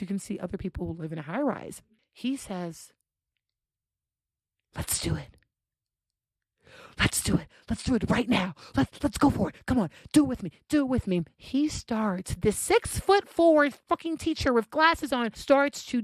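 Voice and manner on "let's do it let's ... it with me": eager urging. Retold or imitated. Teacher coaxing his date to join in, eager urging. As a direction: build up an imitation of an eager man's pleading.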